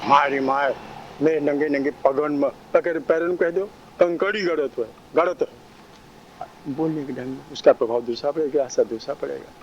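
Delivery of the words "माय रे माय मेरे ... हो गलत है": माय रे माय said in a slightly harsh, grating voice; a hint of rasp on मेरे नंगे नंगे पगन में. Shown as a demonstration. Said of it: "उसी कर्कश शब्द में बोलो". (कर्कश आवाज़ का हल्का सा पुट)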